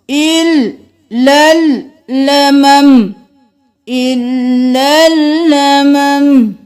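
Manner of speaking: इल, लल, लमम said slow and separate; syllable-by-syllable joining. Shown as a demonstration. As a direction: build the word by its syllables. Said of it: "इल और फिर लल". (इल लल लमम धीरे जोड़कर)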